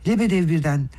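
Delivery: ordinary delivery, nothing marked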